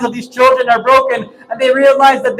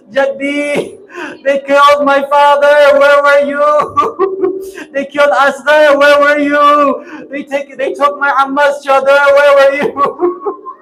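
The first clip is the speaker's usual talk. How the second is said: tearful complaint; 3 semitones higher than usual. Acted. Ruqayya crying to her grandfather about her father, weeping. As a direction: sob out each question. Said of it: "I want to go and complain".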